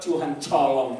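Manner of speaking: "colong" with a ch sound replacing the t of "tolong"; mocking mispronounced prayer. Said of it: "Tuhan tolong kok colong malah". (pelesetan "tolong" jadi "colong")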